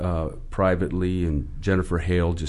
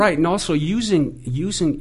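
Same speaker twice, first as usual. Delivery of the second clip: wide pitch swing; 8 semitones higher than usual. Shown as a demonstration. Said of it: "if you notice, uh, talking to you in here, I've got a, a lot of pitch range".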